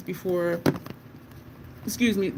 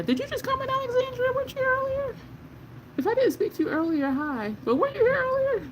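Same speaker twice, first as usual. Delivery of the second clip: high sing-song greeting; faster than usual. Real, not acted. Greeting viewer in live chat.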